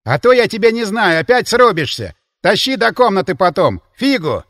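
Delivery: exasperated host scolding; indignant. Acted. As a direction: scold the drunk friend. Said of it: "Возмутился Демин".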